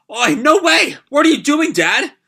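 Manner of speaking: high, loud shocked exclamation; alarmed disbelief. Acted. Son watching his father's risky move, alarmed. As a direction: cry out in disbelief, pitch jumping up.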